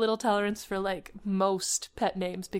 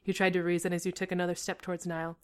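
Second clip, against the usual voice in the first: dramatic story reading, measured; story narration. A narrator's reading. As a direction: read it out as a suspense tale.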